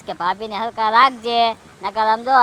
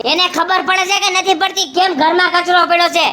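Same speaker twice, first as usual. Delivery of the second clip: angry scolding; 5 semitones higher than usual. Acted. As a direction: scold the absent wife angrily. Angry husband scolding about wife. (ગુસ્સામાં ઊંચા અવાજે ઠપકો)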